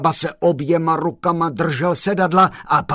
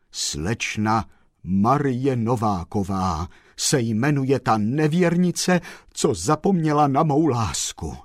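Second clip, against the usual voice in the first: sorrowful sigh; 3 semitones lower than usual. Acted. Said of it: "s žalostným vzdechem".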